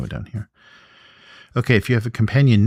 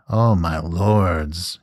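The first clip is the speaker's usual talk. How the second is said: whining troll; much slower than usual. Acted. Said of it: "he whines".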